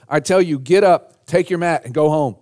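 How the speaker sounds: preacher voicing a firm, high-energy command; retold command. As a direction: give the order with ringing authority. Jesus commanding the paralytic.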